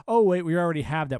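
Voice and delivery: loud, fast sarcastic jab. Real, not acted. Sarcastic mock reveal.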